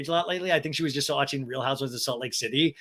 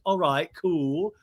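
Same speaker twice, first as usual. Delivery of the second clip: put-on childish James; much slower than usual. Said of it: "James, like a little child".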